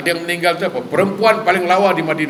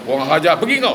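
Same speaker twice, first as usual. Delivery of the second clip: mock furious dismissal; 2 semitones higher than usual. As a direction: act out chasing someone off. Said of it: "Mungkin mengamuk kan". (lakonan mengamuk menghalau)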